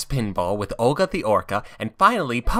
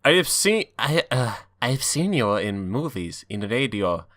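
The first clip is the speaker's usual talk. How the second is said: put-on Egyptian accent. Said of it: "attempt an Egyptian accent".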